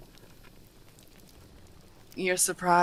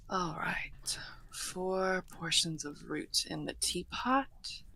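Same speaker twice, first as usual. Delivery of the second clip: soft, slow, half-whispered murmur; murmuring to oneself; 6 dB quieter, slower than usual. Acted. Host measuring tea root into the pot, murmuring to themself. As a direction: think aloud softly, drawing the words out.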